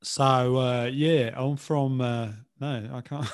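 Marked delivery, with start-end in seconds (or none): 0.0-2.0 loud, halting stab at a Cockney accent; Cockney voice, hesitant and unconvincing; attempted Cockney accent. Shown as a demonstration. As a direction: try a Cockney accent and falter. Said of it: "Cockney, uh, example".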